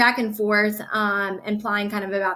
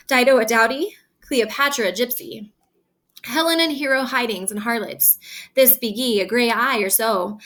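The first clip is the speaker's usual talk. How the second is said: reading Shakespeare aloud, a little raised and lively; dramatic reading. Acted. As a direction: perform the old verse for the class. Teacher reads Shakespeare aloud.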